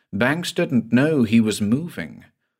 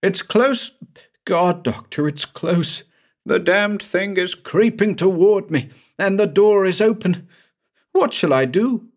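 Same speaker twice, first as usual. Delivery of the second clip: terrified calling; 10 semitones higher than usual. Acted. Terrified patient calling downhill.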